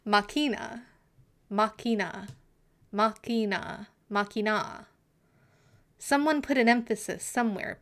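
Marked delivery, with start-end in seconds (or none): 0.0-4.9 "Machina" repeated with a hard k, MAH-kee-na; "Machina" said MAH-kee-na, over and over; pron tries. Shown as a demonstration. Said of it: "I'm getting a lot of different".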